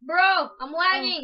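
loud, slow, drawn-out gamer complaint; hyped gamer bro. Real, not acted. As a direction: whine about the lag, stretched out. Complaining about game lag.

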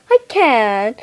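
can't stop laughing; cracking up while speaking. Real, not acted. Cracking up mid-scene.

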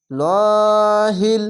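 লাহিল with a thick, heavy ল, drawn out slowly; heavy lam. Shown as a demonstration. Teacher showing the heavy lam of Allah's name, slow. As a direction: darken the ল in লাহিল. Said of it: "মোটা করা হবে".

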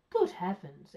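loud, mildly astonished policeman; startled exclamation. A narrator's reading. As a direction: exclaim it with sudden force. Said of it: "exclaimed the first policeman".

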